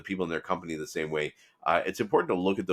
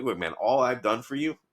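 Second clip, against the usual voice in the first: mildly acted irritation, higher pitch; higher, exasperated retelling; pissed off; 5 semitones higher than usual. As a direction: imitate a fed-up boss scolding his protege. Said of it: "pissed off".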